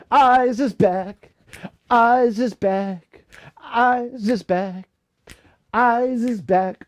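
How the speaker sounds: high, slow sing-song. Real, not acted. Drawn-out repeated sing-song greeting.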